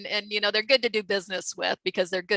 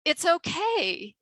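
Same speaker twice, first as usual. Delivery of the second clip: laughing; 12 semitones higher, 5 dB louder than usual. Real, not acted. Sharing her lesson with the host, real laughter. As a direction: let the laugh carry the words.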